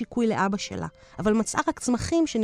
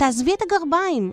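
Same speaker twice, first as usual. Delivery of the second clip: impatient, hurried, much higher pitch; 6 semitones higher, 4 dB louder than usual. Sophia speaks to her grandmother, who is getting dressed; impatient. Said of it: "אמרה סופיה בקוצר רוח".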